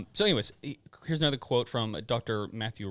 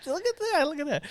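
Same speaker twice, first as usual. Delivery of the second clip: David Attenborough impression; 13 semitones higher, 4 dB louder than usual. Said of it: "David Attenborough".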